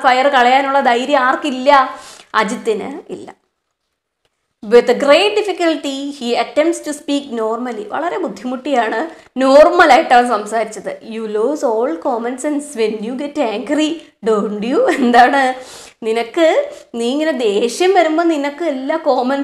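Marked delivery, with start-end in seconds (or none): 4.7-14.8 slow, deliberate reading of the story. A narrator's reading. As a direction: read each phrase slowly for the class. Teacher reads story aloud. (പതുക്കെയുള്ള കഥ വായന)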